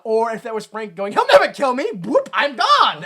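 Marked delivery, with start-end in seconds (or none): 1.1-3.0 loud, high hammed-up boast; imitating a man flung away mid-boast; mock defiance. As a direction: shout it cocky, then stretch out the exit. Acting out Frank's boast while ejected.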